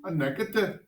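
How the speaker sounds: negative said with a light Irish lilt; a touch of Irish on negative; Irish accent. Shown as a demonstration. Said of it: "Negative is just fun to say with the Irish accent".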